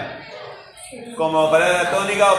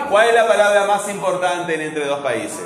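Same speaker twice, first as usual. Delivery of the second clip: usual speaking voice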